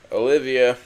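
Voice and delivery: loud call that falls short of a scream; failed scream. Acted. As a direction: call out to her for help. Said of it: "Why wasn't that a scream?".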